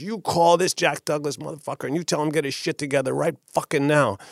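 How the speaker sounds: high-pitched angry demand, imitating him; retold furious order. Intimidating musician ordering me to call the producer, retold fury. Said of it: "and he's screaming".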